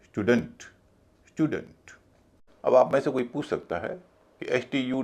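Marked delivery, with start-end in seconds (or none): 0.0-0.6 "स्टूडेंट" as STYOO-dunt, stress on the first syllable; reduced second syllable. Shown as a demonstration. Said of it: "पूरे शब्द को बोला जाएगा". 1.3-1.9 "स्टूडेंट" as STYOO-dunt, higher on the first syllable; reduced second syllable. Shown as a demonstration. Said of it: "पूरे शब्द को बोला जाएगा".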